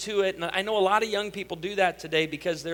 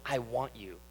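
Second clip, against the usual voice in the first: sultry murmur; 7 semitones lower, 9 dB quieter than usual. Acted. Desire personified speaking.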